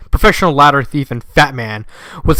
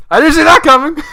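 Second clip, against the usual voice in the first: surprised; 12 semitones higher, 6 dB louder than usual. Real, not acted. Reader reacts to plot twist.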